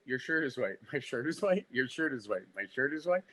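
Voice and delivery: soft singsong drill, "white" falling then rising; monotonous repetition. Shown as a demonstration. Actor demonstrates months of drilling, "white" droned down, then up. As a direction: alternate rote statement "Your shirt is white" and rising echo "My shirt is white". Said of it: "monotonous boredom of repetition".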